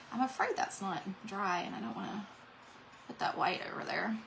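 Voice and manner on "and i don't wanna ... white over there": whispered aside while painting. Real, not acted. Murmured to herself while painting on the live stream. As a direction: breathe it under the voice.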